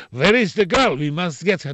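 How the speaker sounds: Russian gangster accent, only lightly put on. Shown as a demonstration. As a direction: give it a light Russian accent as the film villain. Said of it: "in Russian I used to say".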